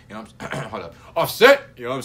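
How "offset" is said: sudden loud hype call, pitched way up; shouted name. Real, not acted. Hyping viewers, shouting the rapper's name excitedly. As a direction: yell the name out like he just remembered.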